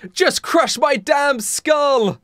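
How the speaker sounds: high, drawn-out mock agony; pained yell. Daniel begging for relief, slow mock yell of pain. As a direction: yell it slowly in hammed-up pain. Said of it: "I yell in pain".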